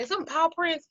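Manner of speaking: skeptical question. Retold or imitated. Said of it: "And I'm like".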